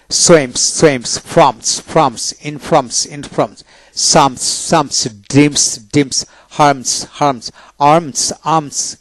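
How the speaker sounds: সুইমস with a plain "s" after the m; dental S ending. Shown as a demonstration. Teacher showing students S after M, dental S demonstration. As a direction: end ড্রিমস on a dental "s". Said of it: "দন্তাস্য হয় June".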